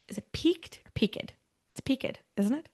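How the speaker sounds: a quick unsure whisper, half to herself; whispered aside. Real, not acted. Doubting her own pronunciation, whispering to her mother. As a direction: breathe the question under the talk.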